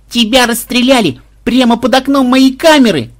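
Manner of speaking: high, loud squeal of delight; delighted yell. A narrator's reading. Granddaughter thrilled at her rescuer's exploit, delighted yell. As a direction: cry it out in utter rapture. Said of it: "в полном восторге завопила внучка".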